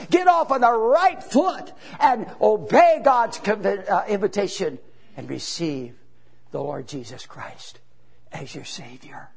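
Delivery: earnest altar call, swelling then hushed; preaching appeal. Acted. Preacher urging the congregation to be saved, earnest appeal.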